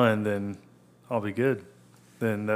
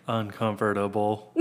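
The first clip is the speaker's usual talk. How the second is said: stiff, robotic "Uncomfortable". Shown as a demonstration. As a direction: say it like a machine. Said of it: "It sounds robotic".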